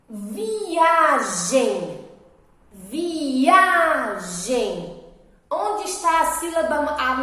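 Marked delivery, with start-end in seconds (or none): 0.1-4.9 "Viagem" slow, with a long vi-AAA-gem; stress on middle syllable. Shown as a demonstration. Teacher asking where the strong syllable is, drawn-out stressed vowel. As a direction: stretch the A in "Viagem". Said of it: "a sílaba mais forte dessa palavrinha".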